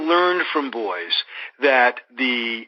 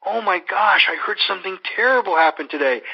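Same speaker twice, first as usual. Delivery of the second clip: higher, hurried overreaction; fussing, pitched-up mock dismay; mock alarmed concern; 6 semitones higher than usual. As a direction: act out an over-emotional greeting to an upset child. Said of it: "the last thing I want to do is".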